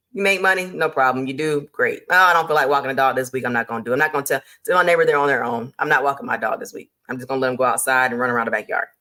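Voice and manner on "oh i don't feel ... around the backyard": mock lazy excuse-making, lower and fast; lazy hobbyist. Hobbyist dog walker brushing off the neighbor's dog, mock lazy and fast. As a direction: rattle it off like someone who can't be bothered.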